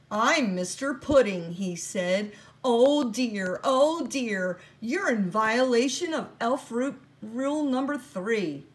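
a busy little man tutting over the rules; the elf boss fretting over a broken rule; fussy little elf. Acted. Mister Pudding fusses over rules.

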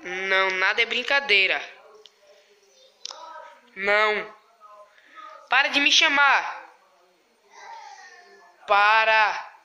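loud frightened pleading; scared shouting. Real, not acted. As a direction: shout at him to stop. Pleading with prankster to stop.

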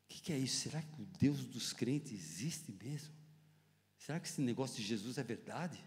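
hushed wondering. Retold or imitated. Retelling his surrender at church, hushed wondering. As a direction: ask it inwardly, low and subdued.

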